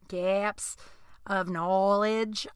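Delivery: slow, drawn-out odd accent on GAPS and KNOWLEDGE; odd unplaced accent. Shown as a demonstration. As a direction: stretch the words in an unplaceable accent. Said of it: "what this accent is that comes out".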